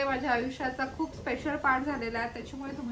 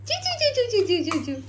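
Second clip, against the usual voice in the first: sparrow chirp; 7 semitones higher, 4 dB louder than usual. Retold or imitated. Sparrow sound again.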